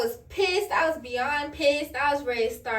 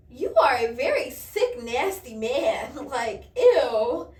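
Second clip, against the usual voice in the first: disgusted; 5 dB louder, slower than usual. Retold or imitated. Reacting to his texts from club.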